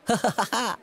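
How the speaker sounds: laughing. Acted. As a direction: laugh briefly at the punch line. Laugh after the punch line. (छोटी, ऊँची हँसी)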